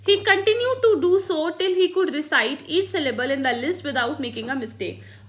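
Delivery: slow, careful read-aloud of a textbook line; dictating from the book. Shown as a demonstration. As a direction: read each word out slowly for the class. Reads textbook English aloud.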